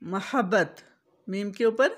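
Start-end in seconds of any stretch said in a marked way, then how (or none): 0.0-0.8 मोहब्बत with zabar on meem, ma-habbat; मोहब्बत with open first vowel, not mu; correct mohabbat. Shown as a demonstration. Teacher modelling correct मोहब्बत for viewers. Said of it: "पेश नहीं आती".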